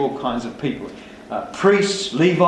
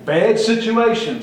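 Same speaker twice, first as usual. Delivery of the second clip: slow, high lament; 1 mock Nehemiah; 6 semitones higher, 3 dB louder, slower than usual. Nehemiah sizing up the ruins, a slow high groan. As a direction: shake your head at the mess. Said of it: "says Nehemiah".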